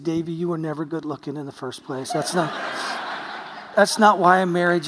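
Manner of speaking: teasing through a laugh; laughing tease. Retold or imitated. Wife teasing her wounded husband, laughing as she speaks. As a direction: laugh it off lovingly.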